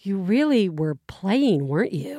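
gently scolding mother; mom voice. Retold or imitated. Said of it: "you're really good at doing the mom voice".

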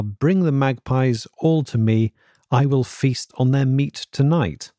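put-on slow, deadpan, eerie child's words; quoted eerie daughter. Parent reading the daughter's creepy words aloud, slow and eerie. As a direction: intone it slowly like a possessed child. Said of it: "the only words she will say to us are".

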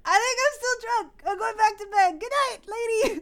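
a dismissive tipsy goodnight to the lady ghost; mock drunk brush-off. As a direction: shrug off the ghost, half laughing. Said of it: "I just was like".

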